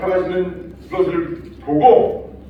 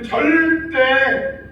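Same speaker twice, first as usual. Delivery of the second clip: 절대 stretched very slow and high; stress on 절대; 10 semitones higher, much slower than usual. Acted. Preacher stressing Peter's vow, slow emphatic 절대. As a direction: lean hard on 절대.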